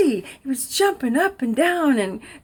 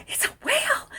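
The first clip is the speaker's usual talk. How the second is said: echoed amazement; 13 semitones higher, 6 dB quieter than usual. Retold or imitated. She echoes the sheriff.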